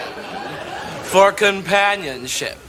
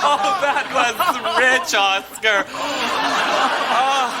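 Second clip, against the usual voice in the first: laughing; 5 semitones higher than usual. Acted. Buddy laughing, catching breath.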